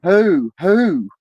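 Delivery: high, loud hooting owl; a joke-teller's owl voice calling out. Retold or imitated. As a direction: hoot it out like an owl. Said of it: "the fucking owl says".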